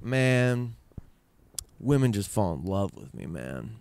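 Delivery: lazy, self-satisfied drawl sinking low; imitating the arrogant father; smug boast. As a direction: relish the boast like a cocky charmer. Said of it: "but he said it more like".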